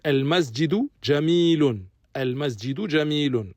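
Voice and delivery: al-masjidu jamilun with both final u endings clear; model sentence. Shown as a demonstration. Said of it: "Il finit avec une damma". (al-masjidu jamilun, les u finaux bien marqués)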